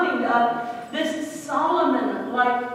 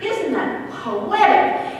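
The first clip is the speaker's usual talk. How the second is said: marvelling; 4 semitones higher than usual. Retold or imitated. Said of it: "you'd go".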